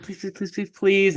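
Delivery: high-pitched mock begging; tearful pleading. Cinderella begging her stepmother to let her go, mock-tearful. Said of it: "it keeps crying".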